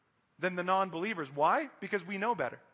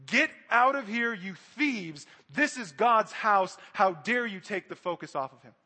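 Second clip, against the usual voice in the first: angry rebuke; 4 dB louder than usual. Acted. Jesus drives out the temple thieves.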